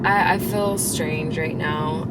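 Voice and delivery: slow numb-lipped speech; can't move the lips properly; numb mouth. Real, not acted. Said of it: "I can't talk really normal".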